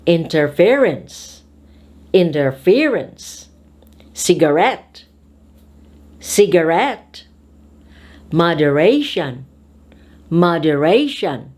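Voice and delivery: careful dictation with third-syllable stress, as in hesiTAtion. Shown as a demonstration. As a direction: say each word alone, third syllable stressed, as in peniCILlin. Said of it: "put an accent or stress on the third".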